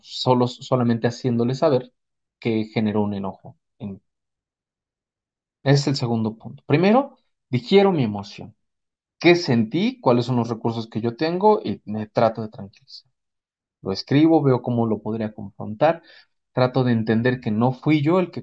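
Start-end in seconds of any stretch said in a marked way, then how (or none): none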